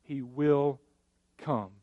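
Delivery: slow, falling "He will come"; emphatic promise. Real, not acted. Pastor stressing angels' promise, slow and falling. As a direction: let "come" fall and land. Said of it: "those two words".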